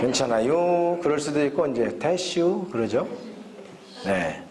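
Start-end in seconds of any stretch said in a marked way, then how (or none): 0.0-1.0 drawled Chungcheong "-yu" ending; lightly imitated Chungcheong dialect. Shown as a demonstration. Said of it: "충청도 분들은". 2.0-2.7 slow Chungcheong "-슈" drawl, a little higher; imitated rural Chungcheong speech; Chungcheong dialect. Shown as a demonstration. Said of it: "충청도 분들은".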